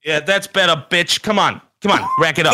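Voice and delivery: high, bossy asshole-star voice; Hollywood Druid. Acted. Asshole star bossing his assistant, high pushy commands. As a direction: order the assistant about, short and insistent. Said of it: "Hollywood Druid out".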